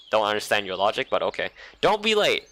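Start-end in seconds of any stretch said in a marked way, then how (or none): 1.8-2.5 higher bossy camp leader warning; stern camp leader. Acted. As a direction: wag a finger with your voice. Camp leader orders Semyon.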